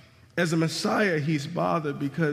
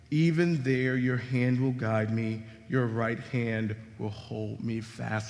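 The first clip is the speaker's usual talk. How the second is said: scripture reading; 3 semitones lower than usual. Acted. Pastor reading a psalm to the congregation, measured. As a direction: read the verses steadily, letting them land.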